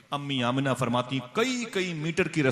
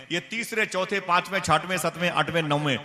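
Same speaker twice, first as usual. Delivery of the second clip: building to a climax; 6 semitones higher, 8 dB louder than usual. Acted. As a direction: preach it up to full force. (जोश से चढ़ती ऊँची, धीमी पुकार)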